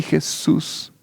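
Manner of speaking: breathy whispered name. Real, not acted.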